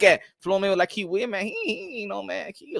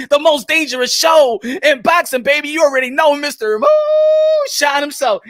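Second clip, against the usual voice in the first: show intro hype; 3 semitones higher, 3 dB louder than usual. Real, not acted. Host hyping his boxing show to viewers. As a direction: stretch out the name like a ring announcer.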